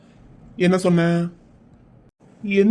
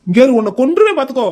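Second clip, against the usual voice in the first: louder, heated warning; half-joking furious threat; angry threat; 3 semitones higher, 6 dB louder than usual. Acted. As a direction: snap a threat at him. Threatens the grandfather in a quarrel.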